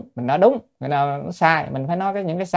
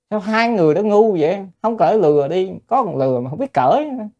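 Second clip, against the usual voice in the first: mocking onlooker; 6 semitones higher than usual. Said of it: "thấy người ta nói nữa".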